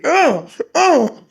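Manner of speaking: high, laughing mock 'oh' of pain; pained groans. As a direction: imitate someone straining in pain. Mimics boy struggling with hook.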